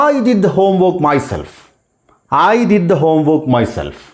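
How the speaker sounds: very slow, each word spaced; slow model sentence. Shown as a demonstration. Teacher reading the example to students, slow and deliberate. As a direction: say it slowly for learners to repeat. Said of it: "model sentence read out".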